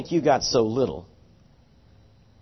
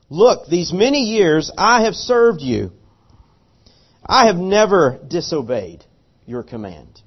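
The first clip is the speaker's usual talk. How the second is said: lecturing complaint; 2 semitones lower than usual. Retold or imitated. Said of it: "he's gonna correct his father here".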